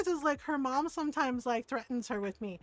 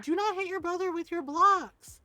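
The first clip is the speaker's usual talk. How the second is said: scolding mom; 3 semitones higher, 3 dB louder than usual. Retold or imitated. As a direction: imitate a mother laying down the law. Retold mom scolding the child.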